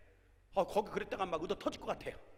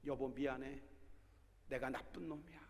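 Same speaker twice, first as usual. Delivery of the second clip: soft apology; 3 semitones lower, 7 dB quieter than usual. Retold or imitated. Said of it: "딱 껴안으면서".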